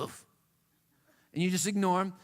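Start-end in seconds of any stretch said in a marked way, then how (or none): 0.0-0.3 short breathy dog huff; mock dog whine; imitated dog huff. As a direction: huff like a dog begging for peanut butter. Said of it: "He'll look at you and go".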